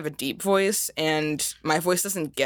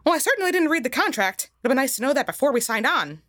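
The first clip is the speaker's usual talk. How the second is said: Mickey Mouse voice; 3 semitones higher, faster than usual. Acted. Mickey protesting contract.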